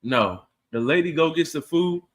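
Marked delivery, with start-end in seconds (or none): none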